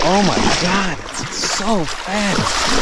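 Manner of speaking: slow strained voice, numb with cold; in ice cold water. Real, not acted. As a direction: push the words out, freezing. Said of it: "I already can't feel my legs".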